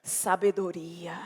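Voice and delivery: slow breathy whisper of the word; whispered sabedoria. Real, not acted. Preacher whispering the lesson to the congregation. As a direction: hush it like a secret. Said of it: "whispered key word".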